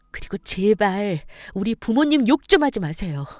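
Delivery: lightly acted wife, indignant and defiant; pleading anger, rising on the sharpest points; aggrieved wife. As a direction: pour out long-held grievances to your in-laws.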